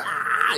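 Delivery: breathy, voiceless mock scream; hushed imitation of a film scream; imitated scream. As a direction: fake a scream without real voice. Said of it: "it just shows her going".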